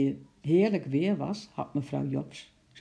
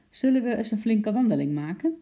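lightly voiced eager suggestion; keen father; 6 semitones higher, 5 dB louder than usual. A narrator's reading. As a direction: brighten into a higher, louder invitation. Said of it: "Daar had hij echt zin in".

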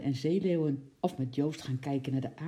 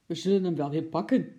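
cheerful; 6 dB louder, faster than usual. A narrator's reading. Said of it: "zei vader opgewekt".

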